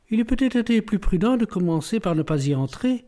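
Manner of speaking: ironic. A narrator's reading. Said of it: "d'un ton ironique".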